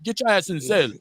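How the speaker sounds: lightly put-on Russian accent; a hint of a Russian guard; mock Russian accent. Mimicking a Russian guard in a mild Russian accent. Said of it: "My Russian shit".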